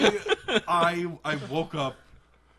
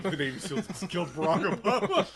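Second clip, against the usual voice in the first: laughing quote; 3 semitones higher than usual. Retold or imitated. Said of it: "Me waking up from being dead asleep".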